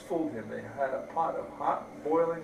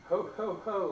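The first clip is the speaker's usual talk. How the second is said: mock laughing; 6 semitones higher, 3 dB louder than usual. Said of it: "laughed the second little pig".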